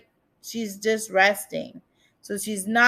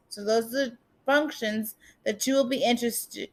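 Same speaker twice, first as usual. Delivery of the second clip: wearing a retainer. Real, not acted. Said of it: "it's really hard to speak with my retainers in".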